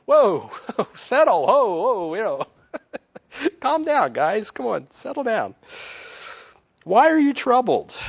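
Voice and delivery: loud and high, laughing, slow; Jesus calming them. Acted. Jesus calms terrified disciples in the locked room, loud and laughing. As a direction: hush a room of panicking friends, grinning. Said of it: "You know, he's like".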